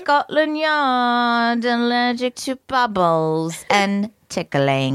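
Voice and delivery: put-on British accent. Host marvelling at the thief's weakness, mock British accent. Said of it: "do this whole section in a British accent".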